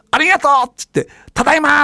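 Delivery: high, loud, beaming ありがとう and ただいま; loud greeting. Retold or imitated. Coming home to friends, calling ただいま loudly and happily. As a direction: call it out so the whole room hears. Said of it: "って大きな声で言って".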